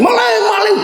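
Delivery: high-pitched mock alarm call; crying thief. Preacher imitating a householder spotting a thief, mock shouting. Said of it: "kita teriakin".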